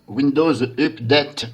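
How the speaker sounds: put-on slow, careful English accent on the English words. French YouTuber apologising for his English accent. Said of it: "Désolé pour mon accent English version".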